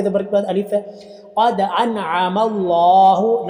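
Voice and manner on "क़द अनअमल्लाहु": slow, drawn-out Quranic recitation. Shown as a demonstration. Teacher reciting Quran for students, slow drawn-out chant. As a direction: chant it slowly, stretching the vowels. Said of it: "लफ्ज़ अल्लाह कड़ी ज़बर".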